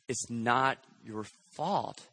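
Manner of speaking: slow, soft, gentle reassurance; gentle counselor. Retold or imitated. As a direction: ease it out slowly to a hurting young man. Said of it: "He takes a step closer to him".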